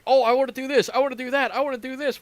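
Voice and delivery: mocking whiny players, high. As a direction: whine like demanding players. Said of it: "a hundred people saying".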